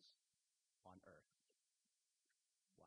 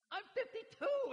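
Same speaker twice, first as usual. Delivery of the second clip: getting emotional; 14 dB louder, slower than usual. Real, not acted. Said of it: "I started getting emotional".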